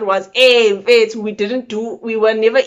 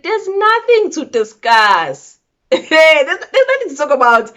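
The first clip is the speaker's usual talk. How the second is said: firm dismissal; 6 semitones higher, 4 dB louder than usual. Retold or imitated. To her boyfriend, firmly refusing to discuss. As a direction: shut the discussion down flatly. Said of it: "I said".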